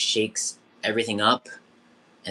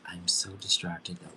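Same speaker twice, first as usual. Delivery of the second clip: whispered admission; 7 dB quieter than usual. Real, not acted. Host admits distraction softly.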